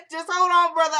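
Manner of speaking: playfully begging a fan to be patient, laughing. Real, not acted. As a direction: laugh it out while teasing a fan. Teasing a viewer about shout-outs.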